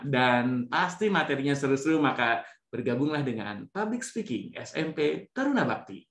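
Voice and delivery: upbeat club promo read; promo demo. Shown as a demonstration. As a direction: pitch the club like an ad. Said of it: "Itu contoh ya". (promosi ekskul dengan gaya penyiar)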